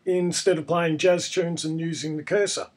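hoarse from a cold; croaky voice. Real, not acted. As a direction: speak through a croaky throat. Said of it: "Excuse my croaky voice".

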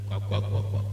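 breathy "kwa kwa kwa" mock laugh; imitated laugh. Preacher imitating how the father laughed, soft mock laugh. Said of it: "Wɔsere saa".

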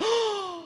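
very high sharp gasp of awe; mock gasp. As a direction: gasp in fake amazement. People reacting to Chico's.

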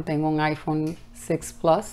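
soft unvoiced whisper; confiding whisper about the phone; whispered aside. Real, not acted.

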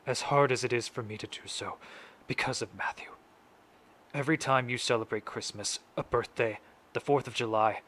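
measured, grave courtroom statement with deliberate pauses; a grieving father's address, restrained and firmly projected; dramatic monologue. Acted. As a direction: recite it solemnly, phrase by phrase. Resumes the monologue after a slip.

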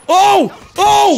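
sudden loud high yelp; startled shout. Real, not acted. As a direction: cry out in shock. Sudden attack in game.

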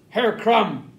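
leader's loud summons; calling out. A narrator's reading. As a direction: call the name out sharply to someone. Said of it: "called out the leader".

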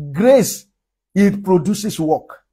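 "Grace" lifted, "it produces work" slow; slow stressed grace. Shown as a demonstration. Preacher hammering the point about grace to the church. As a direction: set "Grace" off then spell the rest out slowly. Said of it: "Anointing produces work".

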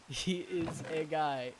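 slow, laughing repeat; chuckling through the words. Real, not acted. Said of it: "repeats the phrase laughing".

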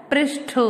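"पृष्ठ" as "presh-tho", aspirated ending; correct pronunciation. Shown as a demonstration. Teacher answering her own question, correctly pronounced. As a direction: release the final th of "पृष्ठ" fully. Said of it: "क्या होता है?".

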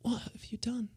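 high, very soft imitation transatlantic; whispered transatlantic. Co-host copying the whisper lesson, soft transatlantic accent. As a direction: echo the hushed melodrama in a high voice. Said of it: "if you whisper it".

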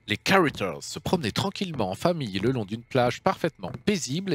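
reading the news bulletin aloud like an anchor; hammed-up news anchor voice; mock news read. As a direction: play the TV news presenter. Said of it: "Mon accent est toujours impeccable".

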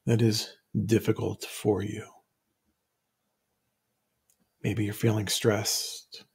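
measured phrases with long pauses; guided meditation. Real, not acted. Teacher inviting listeners to recall a difficult situation, guided meditation. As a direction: guide listeners step by step, leaving room to think.

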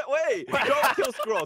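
high shouted plea; shouting. Real, not acted. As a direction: yell to stop the vote. Pleading during vote.

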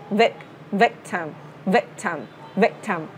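"vectum" with an open e, slowly; "vectum" drilled slow with a short e; short e in victim. Shown as a demonstration. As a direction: stretch out "vec" in "vectum". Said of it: "Mình sẽ làm E".

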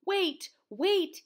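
high, loud call to wait; urgent yell. A narrator's reading. Froggy chasing the leaving school bus, urgent yell. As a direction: yell after someone leaving. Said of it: "he yelled".

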